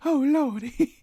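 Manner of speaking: high mock British "Oh, Lordy" with a rising lilt; posh English accent. Retrying the posh accent for a friend, mock British. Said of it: "No, that actually is".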